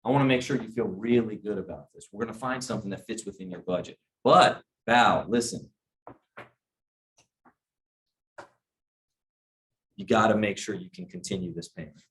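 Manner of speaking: serious advisor. Retold or imitated. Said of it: "I'm already an authority figure".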